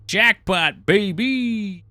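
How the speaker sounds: loud high triumphant cheer; excited cheer. Real, not acted. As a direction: celebrate the win. Winning safe combo cheer.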